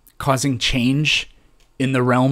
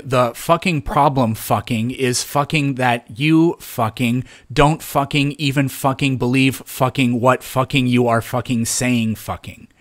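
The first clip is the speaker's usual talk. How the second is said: mocking imitation. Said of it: "I was imitating you".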